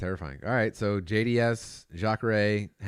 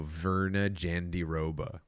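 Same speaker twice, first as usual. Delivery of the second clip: put-on drunk mom voice; 3 semitones lower, 4 dB quieter, slower than usual. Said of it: "that was my drunk mom voice".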